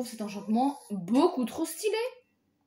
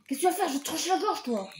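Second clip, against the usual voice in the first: higher, heated taunt at the enemy; getting worked up; 6 semitones higher than usual. Real, not acted. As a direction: hype yourself up mid-fight, voice climbing. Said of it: "je m'énerve un peu". (s'emporte, voix plus aiguë et provocante)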